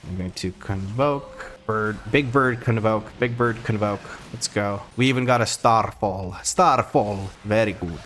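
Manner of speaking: put-on playful Slavic-accented gamer commentary. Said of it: "the Slavic accent".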